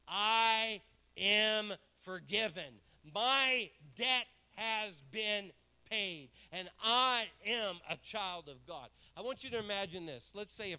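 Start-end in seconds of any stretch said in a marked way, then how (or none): 0.1-8.9 slow, loud, word by word; loud declaration. Shown as a demonstration. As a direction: declare it slowly and loudly. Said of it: "you need to say with a loud voice".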